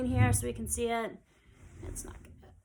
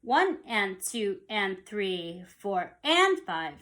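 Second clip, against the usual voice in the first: slow subdivided count; much slower than usual. Shown as a demonstration. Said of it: "here's my bar line".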